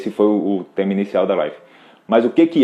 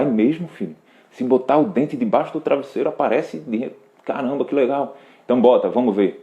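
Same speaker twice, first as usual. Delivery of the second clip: lightly acted parent, a bit higher, humoring the child; mock playful parent; 4 semitones higher than usual. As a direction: play along like a parent pretending to believe. Parent plays along with child.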